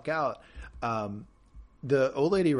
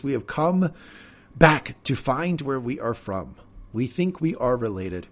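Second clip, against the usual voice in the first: imitating Dominique's accent; 3 dB louder, slower than usual. Host imitates Dominique greeting relatives, slow and accented. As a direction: do Dominique's halting English. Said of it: "I'm doing this on purpose. That's how he sounds".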